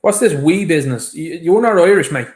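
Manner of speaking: loud, indignant challenge; angry retort. Real, not acted. To the woman on the clip, loud angry challenge. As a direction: fire it back hard and loud. Angry rebuttal to clip's "we're mixed.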